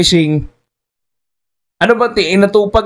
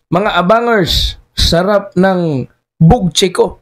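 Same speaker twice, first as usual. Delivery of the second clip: slow, drawn-out sarcastic reading of the post; mocking read; much slower than usual. Vlogger reading the secretary's post to viewers, slow and mocking. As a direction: read it back slowly to ridicule him.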